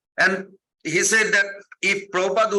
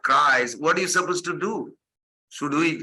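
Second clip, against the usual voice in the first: normal talking voice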